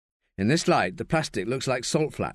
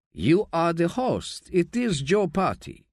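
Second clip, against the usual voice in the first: Spanish man voice; 7 semitones higher, slower than usual. A narrator's reading. Manolo speaking in dialogue.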